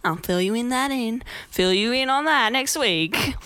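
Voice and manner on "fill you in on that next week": slow, light hint of a Borat accent; mock Borat. To viewers, signing off in a mock Borat accent. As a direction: drag it out Borat-style, lightly. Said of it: "I just went Borat then".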